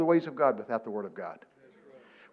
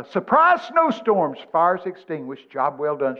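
headline read-out; slower than usual. Retold or imitated. Preacher quoting the Montana paper to congregation, headline read-out. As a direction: announce the surprising news.

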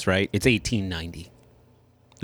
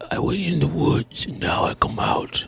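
put-on very old man; 2 semitones higher, slower than usual. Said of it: "so he talks like".

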